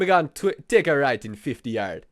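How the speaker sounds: put-on Jamaican accent, sat nav directions. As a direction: read directions like a Jamaican GPS. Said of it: "do, like, a sat nav?".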